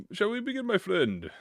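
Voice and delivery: high, showy shall we begin; theatrical invitation. Shown as a demonstration. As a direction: play it like a grand host. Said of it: "retake of the same line".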